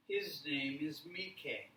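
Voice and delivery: "Mike" said as "Mee-keh", two syllables like the spelling M I K E; mock learner saying "Mike" as "Mee-keh"; katakana-style Mike. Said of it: "Because M I K E".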